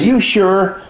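high, startled "you sure"; a sudden high doubting check; surprised question. Retold or imitated. Roy checks in surprise that the pain is gone, startled.

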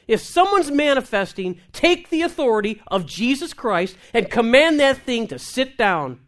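fiery pulpit exhortation; full-force preaching. Real, not acted. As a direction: preach it hard to the congregation. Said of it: "Now you're preaching".

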